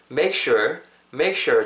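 "make sure" run together as one smooth phrase; natural linked pronunciation. Shown as a demonstration. Teacher modelling "make sure" for learners, natural linked pronunciation. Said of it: "정도로 발음이 될 것 같습니다".

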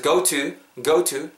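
"go" as "고우" before "to"; gliding "go". Shown as a demonstration. Students repeating along with teacher, gliding "go to". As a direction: let "go" slide from oh to oo. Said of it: "어우 정도로 발음한다".

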